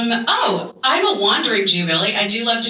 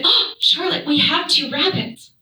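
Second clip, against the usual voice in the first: higher-pitched, dismayed protest; gasping dismay; 5 semitones higher than usual. Retold or imitated. Guest tells hostess about her bunnies, acted dismay. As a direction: protest with a retold gasp of horror. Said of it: "I gasped".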